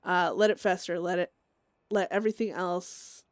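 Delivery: lightly voiced menacing Chester; mild dark whisperer urging rot; Chester's voice. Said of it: "that's Chester talking right there".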